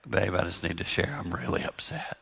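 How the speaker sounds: soft, low, near-whispered confession; said really soft. Shown as a demonstration. Husband telling his wife he's upset, very soft. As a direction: keep it hushed and gentle even though upset. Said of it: "Like, say it really soft".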